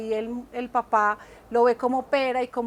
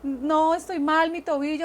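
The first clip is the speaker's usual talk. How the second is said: put-on a higher, slightly louder, lightly tearful boy's plea; retold crying boy; 4 semitones higher, 3 dB louder than usual. Son coming home to his father with a hurt ankle, mildly tearful. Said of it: "llega a la casa llorando".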